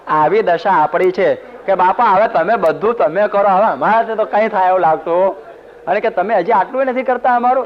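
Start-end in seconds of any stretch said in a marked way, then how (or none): 1.7-5.5 higher, pleading whine of a helpless devotee; mock helpless devotee. Preacher mimics helpless devotees. 6.1-7.7 much higher, complaining; mock complaint. Devotees complain to the guru.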